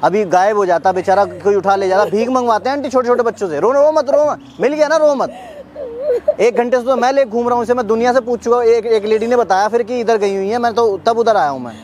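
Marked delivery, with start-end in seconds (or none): 3.6-5.4 real, coaxing reassurance, pitched up. Real, not acted. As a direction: comfort a little one in a raised pitch. Soothing the crying lost child.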